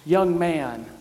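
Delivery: slow, measured line for the people to echo; leading a call and response. Shown as a demonstration. Pastor leading the congregation in a spoken response, slow and measured. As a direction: give the line slowly so the congregation can say it with you. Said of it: "Say it with me".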